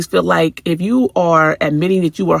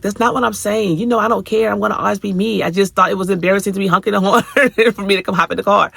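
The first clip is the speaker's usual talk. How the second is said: mimicking teenage daughter; 6 semitones higher, faster than usual. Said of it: "she's like".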